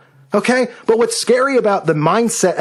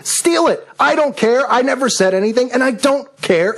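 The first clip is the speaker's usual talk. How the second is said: defiant outburst; 6 semitones higher than usual. Real, not acted.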